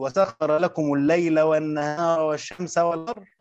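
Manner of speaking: slow reading that comes to a full stop on "والقمر"; stop after والقمر. Shown as a demonstration. Teacher showing students where to stop in the verse. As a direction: read slowly and halt on "والقمر". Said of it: "وأقف وابتدئ".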